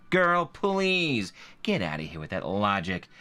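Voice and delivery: mild mock sass, a touch of brush-off; sassy dismissal. Narrator voicing the reviewer's brush-off, lightly sassy. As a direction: wave the logic away lightly. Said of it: "What does Stephanie Baker sound like?".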